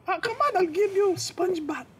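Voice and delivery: put-on a pushy Filipino nurse nagging in her accent. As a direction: Filipino accent, nurse scolding him to shower. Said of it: "there was a Filipino nurse".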